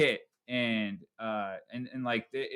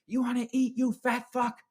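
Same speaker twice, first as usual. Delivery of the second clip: mocking dad taunt; 11 semitones higher than usual. Dad hitting him with cakes.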